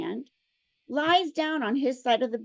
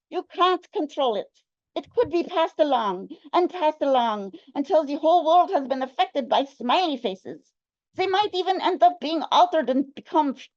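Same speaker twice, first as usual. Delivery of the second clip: put-on Russian accent; 3 semitones higher, 3 dB louder than usual. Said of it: "better Russian accent".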